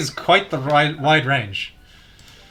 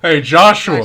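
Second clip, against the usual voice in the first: louder, more accurate voice take; character impression; 3 semitones higher, 7 dB louder than usual. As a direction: closer take of his voice. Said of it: "That's more accurate to his voice".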